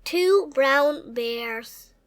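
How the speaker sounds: slow and soft, one word at a time; slow read-aloud. Acted. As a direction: stretch it out for a small child. Slow picture-book reading.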